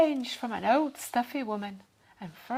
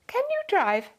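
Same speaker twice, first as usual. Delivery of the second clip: doubtful; 11 semitones higher, 6 dB louder than usual. A narrator's reading. Lady doubts Dad can drive.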